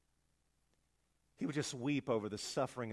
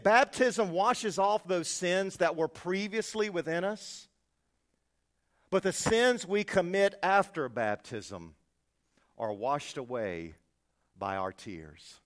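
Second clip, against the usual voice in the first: solemn quote; 3 semitones higher, 6 dB louder, slower than usual. Retold or imitated. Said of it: "He said".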